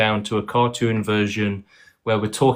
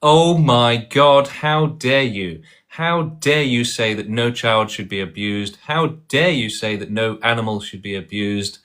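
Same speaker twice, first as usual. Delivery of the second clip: mock outrage. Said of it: "they're saying".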